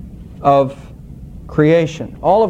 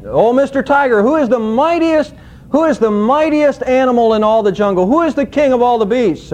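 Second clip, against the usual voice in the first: higher, lightly voiced proud lion; boastful lion; 4 semitones higher than usual. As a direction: ask it like a cocky lion fishing for praise. Lion questions the tiger in joke.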